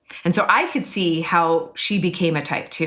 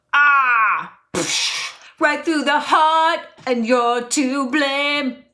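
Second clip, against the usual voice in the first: real emotion; 7 semitones higher, slower than usual. Real, not acted. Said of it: "getting emotional".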